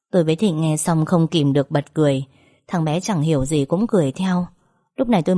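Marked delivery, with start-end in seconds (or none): none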